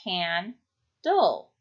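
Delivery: can-dull, slow, two clear beats; syllable by syllable: can, dull; split into syllables. Shown as a demonstration. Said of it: "So it becomes can-dull".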